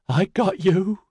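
high, taunting sing-song; giggly, unhinged lilt up high; peculiar sing-song. A narrator's reading. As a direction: chant it like a demented child's tease. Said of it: "in a peculiar sing-song voice".

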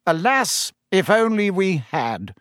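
a touch of bitterness as the minister; mildly bitter official; rueful minister, lightly voiced. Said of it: "said Fudge bitterly".

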